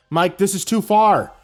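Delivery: loud, slow furious shout; angry shout. Acted. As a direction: shout it at him in anger. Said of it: "Andy shouted at him".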